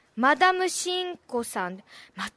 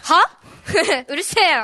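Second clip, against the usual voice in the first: mock offended; 2 semitones higher, 7 dB louder, slower than usual.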